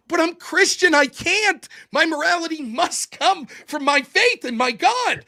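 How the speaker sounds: acted, insistent appeal; impassioned plea. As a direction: plead your case as a believer. Voices a believer pleading his case.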